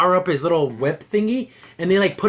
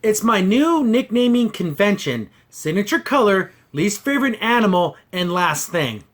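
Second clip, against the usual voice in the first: slow deadpan quote. Retold or imitated. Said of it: "And then he says this".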